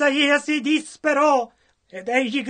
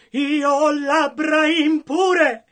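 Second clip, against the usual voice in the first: shouted confession; 4 semitones higher, 4 dB louder, slower than usual. Retold or imitated. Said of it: "E Isaia gridò".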